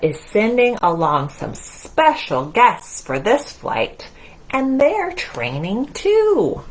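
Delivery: lively picture-book narration; reading to children. A narrator's reading. Storyteller reading Mousetronaut to the children, in a lively read-aloud. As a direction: read it out to little ones.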